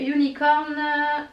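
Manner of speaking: English name in a French accent; hesitant attempt at English with a French accent. Real, not acted. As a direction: say it with a real French accent, stumbling. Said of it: "désolée pour mon accent anglais".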